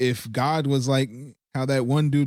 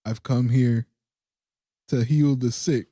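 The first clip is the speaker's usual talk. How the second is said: calm Jesus. Pretend. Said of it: "Jesus very calmly says".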